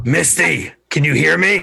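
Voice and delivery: high, rough yell at full shout. Calling out in character to a companion who vanished: yelling. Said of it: "I'm yelling now".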